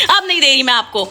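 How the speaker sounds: teasing refusal through a laugh. Real, not acted. Mother laughingly teasing her baby. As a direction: laugh as you tease her.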